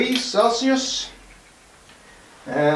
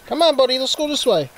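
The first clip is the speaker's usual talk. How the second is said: squeaky dog coaxing; 6 semitones higher than usual. Real, not acted.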